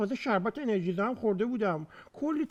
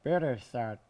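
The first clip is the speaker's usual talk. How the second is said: slow halting reading; 8 semitones lower, much slower than usual. Acted. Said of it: "نتونستم اینقدر تند بخونم".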